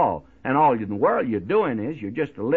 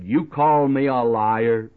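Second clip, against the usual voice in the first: a touch louder, slow, retold challenge; slow mock-indignant demand; angry retort; 4 dB louder, slower than usual. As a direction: mildly act out a man ready to fight. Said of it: "in an angry voice".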